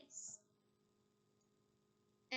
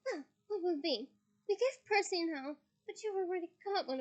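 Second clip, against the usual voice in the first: breathless mum; 5 semitones higher, 3 dB louder than usual. Acted. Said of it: "said breathlessly".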